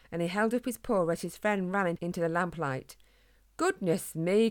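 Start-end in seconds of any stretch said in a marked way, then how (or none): 3.6-4.5 surprised exclamation. Acted. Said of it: "cried the runner".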